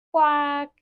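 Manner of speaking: single spoken quack; duck quack. Acted. Teacher repeating the duck's sound, a mild quack. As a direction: lightly imitate a duck. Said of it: "goes the duck".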